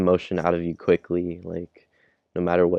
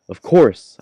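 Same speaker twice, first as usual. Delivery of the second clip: higher, louder eager yes; eager exclamation; 5 semitones higher, 9 dB louder than usual. Acted. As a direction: answer like the chance of a lifetime. Character eagerly accepts offer.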